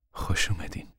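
hushed, whispery welcome; softly. A narrator's reading. Mother welcoming the preacher, softly. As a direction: murmur it gently, barely voiced. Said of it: "مادر آهسته گفت".

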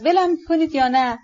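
half-hearted yell to be let go; mild shout. Acted. Lady snapping at those calming her, mild shout. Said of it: "داد زد".

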